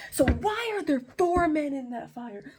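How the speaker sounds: high, loud incredulous question; acted alarmed disbelief. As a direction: demand an answer like a baffled king. King baffled by fourth man.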